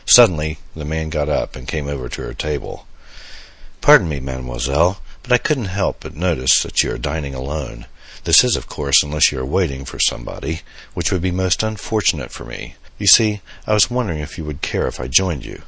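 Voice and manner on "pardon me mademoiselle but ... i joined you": put-on lightly French-accented gentleman, courteous; a hint of a heavy French accent, politely asking to join; mild French accent, charming stranger at a restaurant. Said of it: "He spoke in a heavy French accent".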